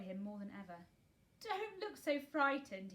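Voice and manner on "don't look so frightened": slow, louder, higher exclaim. A narrator's reading. Guardian exclaims to a frightened girl, slow and loud. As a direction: cry out slowly to calm her. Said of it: "he exclaimed".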